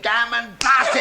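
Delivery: loud, slow exasperated swearing; cursing outburst. Acted. Rector swears at bad news, loud angry curse. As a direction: let the curse rip out. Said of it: "merits the use of a cuss word".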